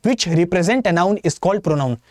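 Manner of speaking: each word spaced out very slowly; slow dictation. Shown as a demonstration. Teacher dictating the definition to students, very slow. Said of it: "नई वाली बताओगे जो Atul sir ने बताई है".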